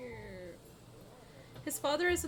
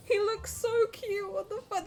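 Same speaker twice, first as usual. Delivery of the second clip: cooing squeal; 9 semitones higher, 4 dB louder than usual. Real, not acted. Gushing over child.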